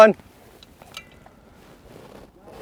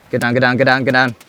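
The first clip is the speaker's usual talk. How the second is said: shouting over gunfire; 7 dB louder, faster than usual. Real, not acted. Warning teammates mid-fight.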